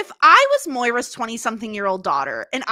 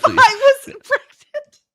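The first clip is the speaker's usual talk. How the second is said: mock wail; 13 semitones higher, 9 dB louder than usual.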